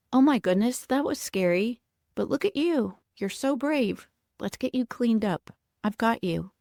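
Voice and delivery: put-on scoop up a scared child with your voice; comforting caregiver. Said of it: "Caregiver A rushes over and says".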